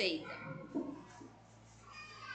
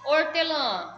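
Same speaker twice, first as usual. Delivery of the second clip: Hortelã with a louder stressed final syllable; stress on last syllable; 3 semitones higher, 5 dB louder, slower than usual. Shown as a demonstration. Teacher showing pupils the tonic syllable, Hortelã stressed on lã. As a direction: say Hortelã loudly, leaning on the final lã. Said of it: "o acento está na última sílaba tônica".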